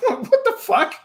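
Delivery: high, slow, laughing exclamation; real laughter pushing the voice up high; laughing disbelief. Real, not acted. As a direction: crack up while asking it. Cracking up at the announcer voice.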